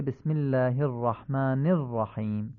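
بسم الله الرحمن الرحیم with three short i vowels; "bismillaahi r-rahmaani r-rahim" for بسم الله الرحمن الرحیم; careful Arabic recitation of بسم الله, kasras as i; eloquent Arabic kasra. Shown as a demonstration. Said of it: "این سه تا کسره فصیح گفته بشن".

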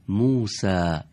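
موسا said with an Arabic accent and a short front final a; موسا, Arabic accent, falling at the end. Shown as a demonstration. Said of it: "نو لهجهٔ عرب بگیم". (موسا با لهجهٔ عربی)

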